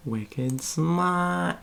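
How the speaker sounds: put-on playful Boston accent, r dropped in smart. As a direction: toss it off like a Bostonian. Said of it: "really a Bill Burr accent".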